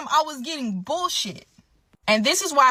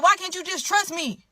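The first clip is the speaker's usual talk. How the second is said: exasperated plea; 7 semitones higher than usual. Retold or imitated. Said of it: "And I'm like".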